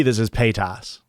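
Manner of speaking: Paytas said PAY-tahss, last vowel open; Paytas with Midwest ah. Shown as a demonstration. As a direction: give Paytas a full "ah" in its second syllable. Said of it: "that's me putting the".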